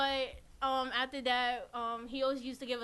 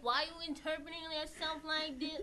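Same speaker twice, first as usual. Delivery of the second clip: put-on higher southern accent with a laugh in it; 5 semitones higher than usual. Mimicking the church mentor lecturing him, southern accent. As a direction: imitate his southern scolding, amused. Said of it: "like, a southern accent".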